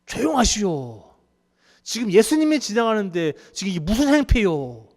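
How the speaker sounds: scolding crowd. Acted. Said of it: "막 이런 식으로 얘기해요".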